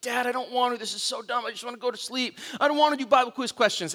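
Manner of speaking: put-on soft, sleepy childish whine; whiny tired kid. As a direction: beg to be left alone in bed. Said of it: "I'm like".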